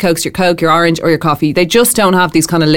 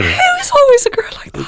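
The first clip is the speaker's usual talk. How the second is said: mock American accent. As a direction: parody the diner girl. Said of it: "mocking the diner girl".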